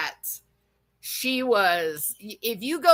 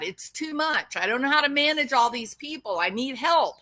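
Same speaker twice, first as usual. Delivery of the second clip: imitating Seth; 3 semitones higher than usual. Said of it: "You said that".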